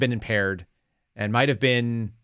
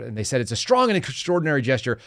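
ordinary delivery

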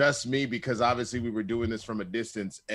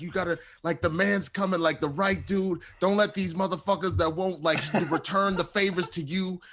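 put-on drunk preacher; 5 semitones higher than usual. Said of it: "became the preacher of love".

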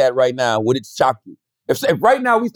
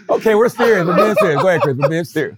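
laughing. Real, not acted. Trying to stop laughing.

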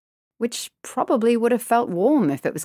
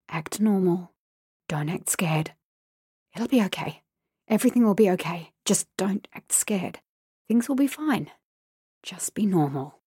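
anxious inner whisper. A narrator's reading. Girl near her street, whispering to herself. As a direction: whisper yourself steady. Inner self-coaching in fear.

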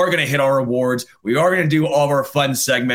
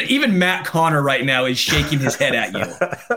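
laughing. Real, not acted. Laughing at the pun.

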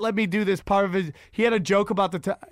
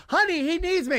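Vin Scully eager; 8 semitones higher than usual. Acted. Retired announcer pretends the team needs him. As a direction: overplay the excitement to get out the door.

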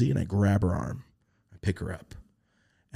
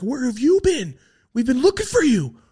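much higher, a bit louder friendly call; excited reply; 5 dB louder than usual. Retold or imitated. The beings greet him back, high excited call.

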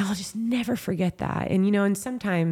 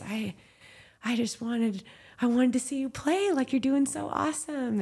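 mom's reply; 8 semitones higher than usual. Retold or imitated. Mom answers her daughter.

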